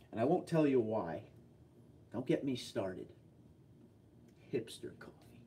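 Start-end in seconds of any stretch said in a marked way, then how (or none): 4.5-5.4 snide whispered aside; mocking hushed whisper. Real, not acted. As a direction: breathe it like a secret jab. Snide aside about hipster shops.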